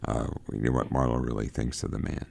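normal talking voice

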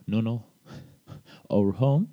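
put-on slow, drawn-out little-kid protest with a laugh; child's protest. Toddler insisting to his parent, slow mock kid voice. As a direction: mimic the toddler, half-laughing. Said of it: "Y me dijo".

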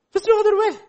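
high, loud, stress on "no"; emphatic proclamation. Real, not acted. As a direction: declare "no" with full force.

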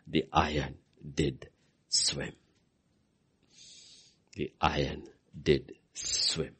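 slow low proclamation. Acted.

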